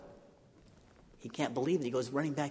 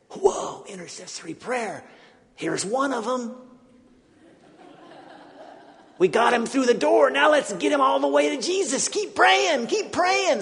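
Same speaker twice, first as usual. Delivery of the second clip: rising, loud excited whisper-to-shout; excited loud rising voices; excited group chatter; 12 semitones higher, 7 dB louder than usual. Retold or imitated. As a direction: cheer them on as the group. Group excited at friends arriving.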